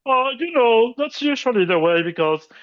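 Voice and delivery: high-pitched demonstration speaking voice. Shown as a demonstration. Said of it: "in a much higher tone".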